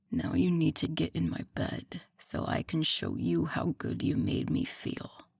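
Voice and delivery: husky low whisper. Acted. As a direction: whisper it as a promise. Intimate low invitation to bed.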